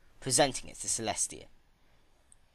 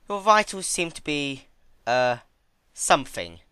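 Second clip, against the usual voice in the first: put-on higher, louder, teasing young mare; Twilight's character voice; 6 semitones higher, 8 dB louder than usual. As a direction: tease the patient with mock concern.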